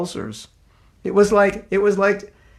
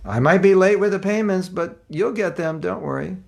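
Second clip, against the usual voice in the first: Krishna reassuring; 5 semitones higher than usual. Retold or imitated. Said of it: "And Krishna's saying".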